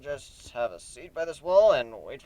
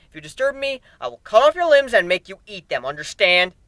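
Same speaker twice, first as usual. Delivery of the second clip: angry. Acted. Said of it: "said with anger".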